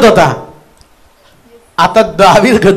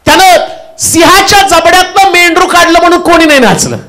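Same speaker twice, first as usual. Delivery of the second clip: exclaiming preacher; 8 semitones higher than usual. Real, not acted.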